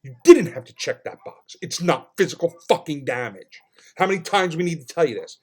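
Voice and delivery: loud, exasperated protest; retold angry yelling. Customer berating the clerk over the checklist, loudly exasperated. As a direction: scold with heavy punches on key words. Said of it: "that's when I started screaming in the store".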